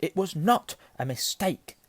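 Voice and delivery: high, slow, emphatic contradiction; angry. A narrator's reading. Boy disputes uncle's excuse, angrily. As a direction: contradict him hotly, word by word. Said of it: "said Harry angrily".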